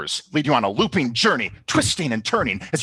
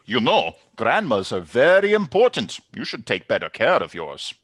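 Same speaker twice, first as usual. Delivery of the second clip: glaring barista; 4 dB louder than usual. Acted. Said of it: "Barista glares at you".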